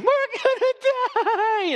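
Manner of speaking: panicked scream. Retold or imitated. Non-fishermen in the storm scream in terror. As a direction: shriek it like a terrified landlubber. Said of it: "are screaming".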